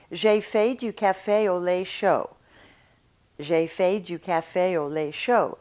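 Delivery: gliding American vowels in "J'ai fait du café au lait chaud"; wrong take with American diphthongs; American accent. Shown as a demonstration. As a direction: say it with a lazy American jaw. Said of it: "that would be with the American mouth".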